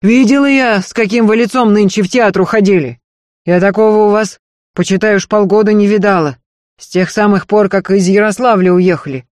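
earnest servant woman begging, high and loud; Marfa's pleading voice. Acted. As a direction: beg her mistress not to leave, pressing hard. Marfa scolds and reminisces.

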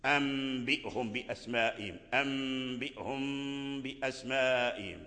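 أنبئهم بأسمائهم with a soft hidden meem before the ba; nasal ghunna on meem. Shown as a demonstration. Teacher reciting the example, meem hidden with a hum. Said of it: "نفس الحكم".

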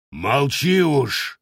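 gruff slow bark. Acted. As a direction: bark it to shut him up. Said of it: "рявкнул воевода".

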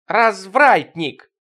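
high, loud, very drawn-out cry; slow, high accusing howl; women's chorus wail. A narrator's reading. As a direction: wail the accusation, stretching every syllable. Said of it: "завопило хором бабьё".

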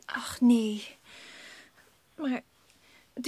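zacht gefluisterd, teleurgesteld; fluisterend. Acted. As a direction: berustend fluisteren. Mokkend na ruzie met zus. (zus fluistert gekwetst na het gesprek)

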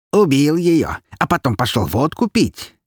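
high snide taunt. Acted. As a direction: needle him with a sly jab. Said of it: "ехидно поинтересовался скелет".

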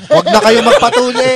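high, loud mock warning; loud joking shout. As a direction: blurt it out as a big joke. Joking advice, loud high burst.

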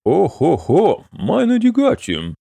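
high, slow drawn-out sighing "О-хо-хо"; weary sigh. Acted. Innkeeper to the wizard: a slow, high weary sigh. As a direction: sigh it out slowly, pitched high. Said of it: "вздохнул Янг Ван Хофен".

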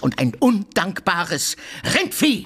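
slow build, then a high shout on Rindvieh; insulting yell. Acted. Tarantjew insulting Oblomow, building to a high yell.

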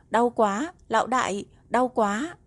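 high pleading cry of pain. Acted. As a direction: whimper it out, begging for pity. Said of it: "Ly Tâm đột nhiên kêu lên".

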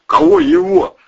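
lightly voiced tough cop, loud; Gleb Zheglov style. A narrator's reading. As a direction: bark it like a tough detective interrogating. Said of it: "в духе Глеба Жиглова".

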